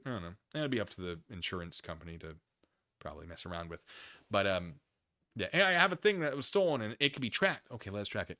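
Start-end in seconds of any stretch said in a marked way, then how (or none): 5.5-7.7 mock suspect voice. Voices Jeremy talking to police.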